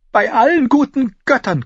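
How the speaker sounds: high, loud amazed gasp; gasping, giggly. A narrator's reading. Cersei beginning to giggle at the news, gasping. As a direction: gasp it in giddy disbelief. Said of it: "keuchte sie".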